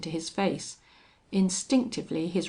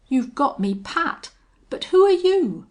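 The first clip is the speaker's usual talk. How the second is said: husky; 10 semitones higher, 10 dB louder than usual. A narrator's reading. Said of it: "said Folsom huskily".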